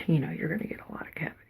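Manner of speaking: fast unvoiced whisper; whispered aside. Real, not acted. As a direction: rush it out in a whisper.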